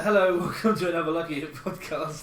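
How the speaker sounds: light Cockney host intro; East London accent. Pretend. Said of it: "Eco in East London".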